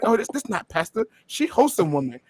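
a light, quiet imitation of the father's Korean accent, broken English; soft mock Korean accent of a flustered father; imitating dad's accent. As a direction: mimic the Korean dad's accent half-jokingly. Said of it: "do that accent that you did".

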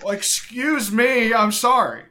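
a little high, apologizing; stoned. Real, not acted. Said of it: "I'm a little high".

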